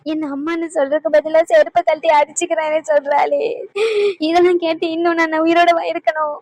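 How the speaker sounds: weeping, pleading with God; crying lament. Acted. Grandmother laments to God about her daughter, crying. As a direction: sob through the lament as if heartbroken. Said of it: "நீ போட்ட drama எல்லாம் போதும்".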